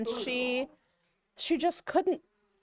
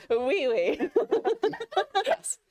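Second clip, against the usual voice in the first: put-on French accent; 10 semitones higher, 4 dB louder, slower than usual. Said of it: "French accent".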